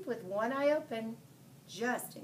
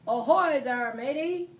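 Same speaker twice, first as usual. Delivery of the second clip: loud pirate call from the boat; captain hailing the boy on shore, yelling; yelled pirate hail; 4 semitones higher, 9 dB louder than usual. A narrator's reading.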